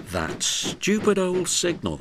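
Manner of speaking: high, put-out little engine voice; a small engine muttering its grievance; grumbling little engine. A narrator's reading. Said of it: "he thought".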